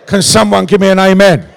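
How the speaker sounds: loud, rousing call for an amen; preacher trick. Shown as a demonstration. Preacher working a hard crowd for response, loud rallying call. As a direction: belt it out to the whole room. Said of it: "pulling out every single preacher trick".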